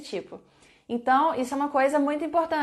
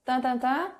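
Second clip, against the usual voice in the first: "Where are my" stretched out very slowly with a rising end; slow teacher prompt with a rise; slow dictation; much slower than usual. Shown as a demonstration. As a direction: draw out each word for students. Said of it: "Escrevam aqui a pergunta".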